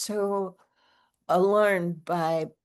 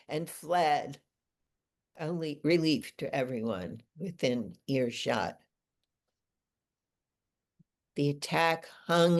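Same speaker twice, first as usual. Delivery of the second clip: measured recital, settling lower at the close; poem reading; 3 semitones lower than usual. Acted. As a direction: read the poem in deliberate phrases. Reads own poem aloud.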